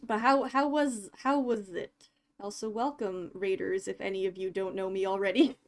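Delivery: blocked nose from a cold; sniffly. Real, not acted. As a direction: talk through a stuffy, sniffly nose. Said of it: "Sorry, I'm sniffly today".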